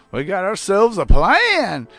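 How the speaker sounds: bold movie hero. Retold or imitated. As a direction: play the cocky hero declaring the plan. Retelling movie heroes' plan.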